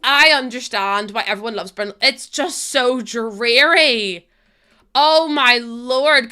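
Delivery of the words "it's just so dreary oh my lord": slow, drawn-out dismay; exasperated. Real, not acted. Streamer to her chat complaining about rain, drawn-out exasperation. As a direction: stretch it out in mock despair. Mock despair over a dreary world.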